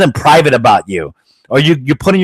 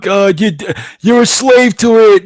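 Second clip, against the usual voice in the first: high, dragged-out mock complaint; mock alarmed griping; 8 semitones higher than usual. Host mocking people who fear technology, whiny mock alarm. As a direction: mimic whiners with pitch jumped way up. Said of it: "people go".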